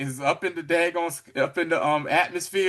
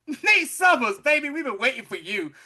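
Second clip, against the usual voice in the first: spaceship voice; 9 semitones higher, 4 dB louder than usual. Retold or imitated. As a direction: greet him grandly, like a ship AI. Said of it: "Spaceship knew who he was".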